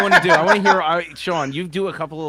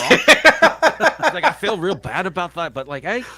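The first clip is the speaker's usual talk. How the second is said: jokey Kiwi bloke, higher pitched; Kiwi accent; 5 semitones higher, 6 dB louder than usual. Retold or imitated. Teammate apologizing after trucking a cornerback, in a mock Kiwi accent. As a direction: play the friendly New Zealand rugby lad. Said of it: "His Kiwi voice is great".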